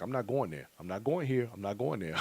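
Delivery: cross the plans off one by one, resigned; deflated. Retold or imitated. Counting the cost, mock-resigned no to each event. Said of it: "start adding up that money".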